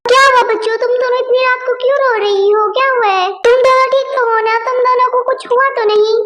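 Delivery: a concerned mom rushing in, quick questions; worried mother. Acted. Mother finds her daughters crying at night, worried. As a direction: hurry in, anxious for the kids.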